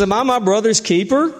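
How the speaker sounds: defiant Cain. Acted. Cain's defiant retort.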